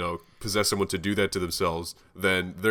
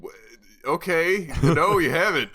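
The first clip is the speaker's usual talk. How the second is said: incredulous; 7 semitones higher, 5 dB louder than usual. Retold or imitated. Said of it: "I go like".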